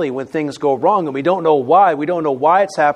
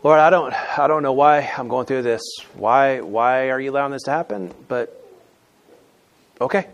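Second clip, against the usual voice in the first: puzzled but submissive prayer; accepting prayer; 2 semitones lower than usual. Shown as a demonstration. Believer asking the Lord why, puzzled but accepting. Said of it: "let me illustrate it by tone".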